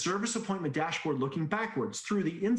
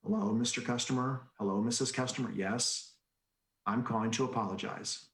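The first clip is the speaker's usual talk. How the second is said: Joey voice; 5 semitones lower than usual. Retold or imitated. Manager showing how Joey should phone past customers. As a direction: drone it calmly to the customer. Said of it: "in your Joey voice".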